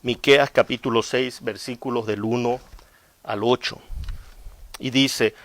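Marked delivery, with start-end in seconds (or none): none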